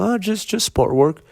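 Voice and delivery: squeaky mock-innocent evasion; evasive owner. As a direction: play it innocent and slippery. Owner dodging the lawyer's question.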